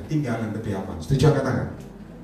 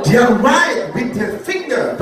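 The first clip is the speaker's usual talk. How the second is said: very slow, loud, weighty; slow dramatic preacher delivery; drawn-out emphasis; 6 semitones higher, 5 dB louder, much slower than usual. Acted. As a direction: stretch each word for effect.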